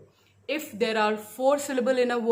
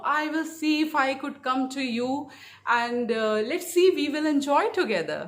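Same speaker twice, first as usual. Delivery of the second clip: higher-pitched English sample sentence with rhythmic stresses; rhythmic stress demo; 4 semitones higher than usual. Shown as a demonstration. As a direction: lilt through "I will see if I could come to you", lifting the pitch. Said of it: "तो जब मैं बोलता हूँ".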